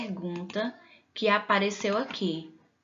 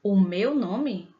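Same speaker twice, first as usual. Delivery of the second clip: slow, surprised echo of "O meu nome?"; drawn-out "O meu nome?" echoing the question; puzzled echo question; 4 dB louder, much slower than usual. Shown as a demonstration. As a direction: repeat "O meu nome?" slowly, as if surprised to be asked. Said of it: "Aí você pode dizer assim".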